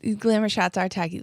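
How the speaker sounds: a quick line in a Boston accent. Shown as a demonstration. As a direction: drop the r's in a Boston accent. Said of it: "That's why I said it in a Boston accent".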